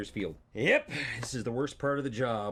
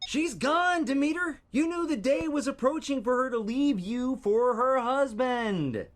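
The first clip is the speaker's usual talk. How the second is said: a hint of a cowboy, higher and louder; 13 semitones higher, 7 dB louder, slower than usual. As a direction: bellow it like a Wild West sheriff. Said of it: "We don't need a cowboy voice".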